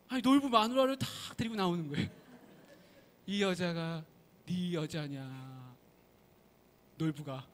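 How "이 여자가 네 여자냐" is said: slowing, softening question; mountain god. Acted. Mountain god slyly showing Nolbu his wife, slow and fading. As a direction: trail off slowly like a knowing sage.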